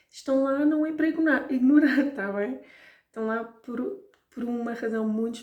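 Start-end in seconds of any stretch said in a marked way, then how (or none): 0.1-2.1 "ignorar" punched high and loud; strongly stressed "ignorar"; emphatic. Shown as a demonstration. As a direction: hammer the word "ignorar" with a laugh. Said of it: "stressing ignorar".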